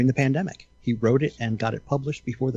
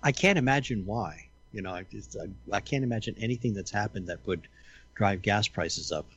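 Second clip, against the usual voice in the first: dry mock innocence, trailing off softer; sarcastic; 2 semitones lower, 3 dB quieter than usual. Friend commenting on rising gas prices, dryly sarcastic. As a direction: feign bafflement with understated sarcasm. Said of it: "he says sarcastically".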